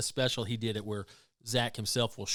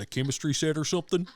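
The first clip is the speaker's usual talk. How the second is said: Southern effeminate voice; 5 semitones higher, 4 dB louder, faster than usual. Retold or imitated. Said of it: "Southern effeminate guy voice".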